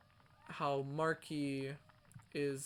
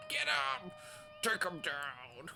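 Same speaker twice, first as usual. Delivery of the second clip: shouting; 3 semitones higher than usual. Real, not acted. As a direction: yell at the screen to tackle. Yelling at the game.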